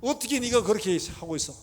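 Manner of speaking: hammed-up parental telling-off; acted scolding. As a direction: scold a daughter in exasperation, playing it big. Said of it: "이러면서 혼내야 되는 게 정상입니다".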